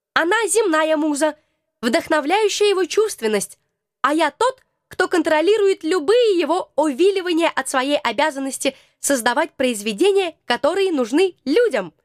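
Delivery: a hint of a prim little being; small creature voice. Krokotuk explains.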